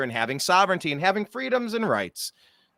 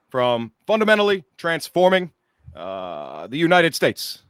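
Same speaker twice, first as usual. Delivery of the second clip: Obama impression. Shown as a demonstration. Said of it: "how do I do it?".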